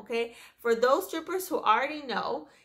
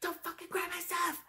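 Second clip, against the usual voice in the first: high-pitched mock yell, volume held down; retold yelling; 6 semitones higher, 8 dB quieter than usual. Coworker yelling in front of everyone, imitated in a high, soft mock yell. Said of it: "like, yelling all her, all the way out".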